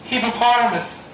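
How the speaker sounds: hippopotamus as "hippa-PAH-ra-mus", flapped t; correct pronunciation. Shown as a demonstration. Trainer asking learners to repeat after him, correct pronunciation. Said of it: "Repeat after me".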